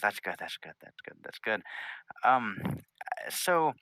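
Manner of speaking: princess voice rising high on the question; polite and halting, feeling your way; Twilight Sparkle, tentative. Acted. Princess asks visitors why they were sent, tentative.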